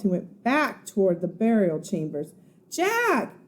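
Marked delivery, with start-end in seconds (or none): 2.7-3.4 high, loud shout for help; high shouted cry for help. Acted. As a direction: scream from far away for help. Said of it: "her voice was louder".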